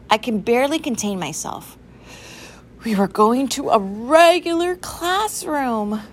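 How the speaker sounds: bursting with anticipation; barely contained excitement. A narrator's reading. Narrator can hardly contain excitement.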